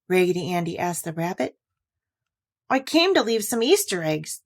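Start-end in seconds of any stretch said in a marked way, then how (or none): 2.7-4.4 quavery little voice. Acted. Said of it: "in a queer little quavery voice".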